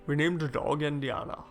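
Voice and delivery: a light Scottish accent in a mimicked film voice; Sean Connery impression. Reviewer mocks the film's Scottish accent, lightly voiced Scottish. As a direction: mimic a movie Scot's accent. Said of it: "so does Sean Connery".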